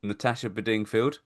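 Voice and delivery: the singer's surname with stress on Ding; odd pronunciation of the surname. Real, not acted. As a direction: say the surname oddly, as Buh-DING-field. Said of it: "Why are you saying it like that?".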